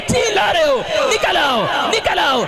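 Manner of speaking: high, relentless deliverance shouting; exorcist's shouted command. Real, not acted. Preacher ordering foul spirits to leave the womb, shouted commands. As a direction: drive the spirit out, punching each short phrase.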